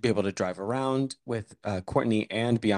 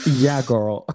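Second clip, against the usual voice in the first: sassy whisper; 5 dB louder than usual. Real, not acted. Sassy reply, unvoiced.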